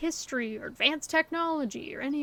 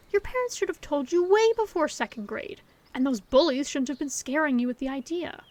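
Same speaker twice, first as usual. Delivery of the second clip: indignant outburst; 2 semitones higher, 6 dB louder than usual. Acted. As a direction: protest hotly on their behalf. Outraged on friend's behalf.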